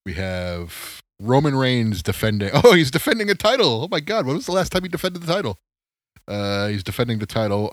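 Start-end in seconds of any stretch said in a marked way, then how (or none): 2.5-5.6 much higher, louder, laughing disbelief, fast; mock astonishment. Host reading the wrestling card, laughing in mock surprise. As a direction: gasp it out in amused disbelief. Mocking Roman Reigns' rare defenses.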